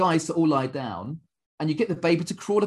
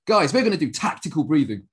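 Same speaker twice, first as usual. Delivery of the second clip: mock hyped-up pitch; 2 semitones higher, 6 dB louder than usual. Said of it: "Oh, okay. Oh, yes, guys".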